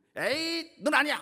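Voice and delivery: very high, sharp, disappointed scolding motherly voice.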